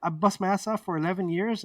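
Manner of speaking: worked-up protest, reenacted; indignant retort. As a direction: act out an affronted comeback. Acted retort in retold quarrel.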